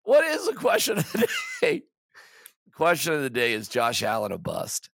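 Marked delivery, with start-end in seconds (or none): 0.0-1.8 much higher, laughing mock-announcer call; host hamming up the segment for his co-host; announcer shout. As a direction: boom out the segment title, cracking up.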